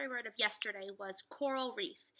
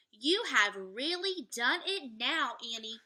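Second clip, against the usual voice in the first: put-on slow, louder, scolding boy; worried Jack; 5 dB louder, slower than usual. Teacher reading Jack scolding Annie, worried and slow. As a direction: Jack scolding his sister, lightly voiced.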